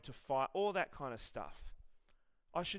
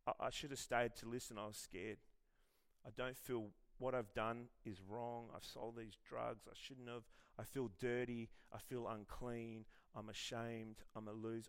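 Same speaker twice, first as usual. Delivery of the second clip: ashamed confession; 2 semitones lower, 4 dB quieter than usual. Retold or imitated. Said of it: "He says".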